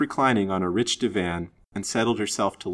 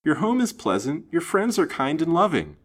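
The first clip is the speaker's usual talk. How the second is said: high, earnest attempt to console; anxious to comfort, voice pitched high; perplexed comforting; 9 semitones higher than usual. A narrator's reading. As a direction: reassure her in a lifted, pleading pitch. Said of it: "quite perplexed as to the means of comforting her".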